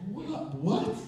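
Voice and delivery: high, startled double question; stunned disbelief. Retold or imitated. Fans reach the front row, stunned and high. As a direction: gasp it out in disbelief. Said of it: "it's like".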